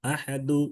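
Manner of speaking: "আহাদু" said softly with a faint short "du"; soft "আহাদু", last vowel only touched; light final vowel. Shown as a demonstration. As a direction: keep the u of "আহাদু" light and unstretched. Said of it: "এই দুটা হালকা উচ্চারণ হবে".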